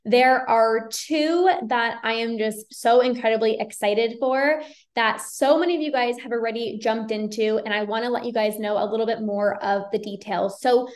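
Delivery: cheerful sponsor-style announcement; ad read. Acted. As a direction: pitch the masterclasses to the viewers. Ad read for masterclasses.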